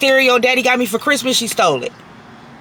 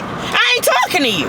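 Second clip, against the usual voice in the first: angry; 8 semitones higher than usual. Real, not acted. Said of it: "I'm angry".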